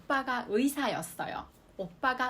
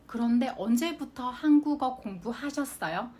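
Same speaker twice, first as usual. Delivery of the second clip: 그런데 언제부터 한국어 공부하셨어요 read at an even, careful pace; careful model reading; 2 semitones higher, 3 dB louder than usual. Shown as a demonstration. Teacher reads the example sentence to students, careful and even. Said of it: "いつから韓国語の勉強されましたか".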